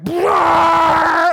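loud, high imitated blender blast; sudden shouted machine noise; loud blender roar.

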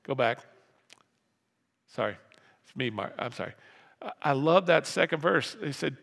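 ordinary delivery

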